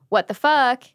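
punchy incredulous what the fuck; mock incredulous. Host voices listeners' disbelief, mock incredulous. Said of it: "If you're wondering".

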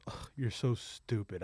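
put-on low, soft, slow teenage disdain; exasperated son. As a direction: imitate a son fed up with Dad. Son scorns his dad.

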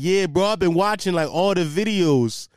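lightly put-on dopey bro, slowing at the end; hint of a mock Canadian dude; mock Canadian idiot coworker. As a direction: imitate the dim coworker, drawn out. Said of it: "I give him this Canadian accent".

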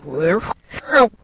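reversed audio playback; the phrase run in reverse; played backwards. Shown as a demonstration. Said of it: "Here it is backwards".

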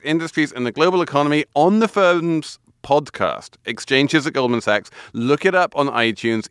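upbeat sponsor read. Acted. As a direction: read it like a radio ad. Host reads sponsor ad.

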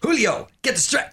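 high-pitched call of "Julio, get the stretch"; mock song call-out. Host echoing co-host's Julio line from the song, high mock call-out. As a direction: pitch it way up like a song's catchphrase. Mimicking the song's famous shouted line.

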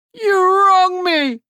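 high, slow, wounded protest; cried out. Acted. Hook protesting to the fairy, high slow offended cry. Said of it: "Hook cried".

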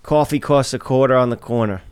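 New York accent, said as a demo; measured New York accent. Shown as a demonstration. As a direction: take your turn at the New York "coffee". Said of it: "trying to do the New York accent".

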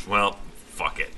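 resigned mutter. Retold or imitated. Giving up gathering in Minecraft.

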